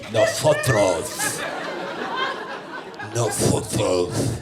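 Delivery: put-on Castilian Spain accent, slow with a lisped "Nosotros"; Spain Spanish accent. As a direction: say "Nosotros" slowly like someone from Spain. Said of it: "With an accent from Spain".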